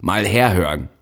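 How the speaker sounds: sharp shout for attention; calling out. A narrator's reading. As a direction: call a hall to attention. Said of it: "rief in die plötzlich eintretende Stille".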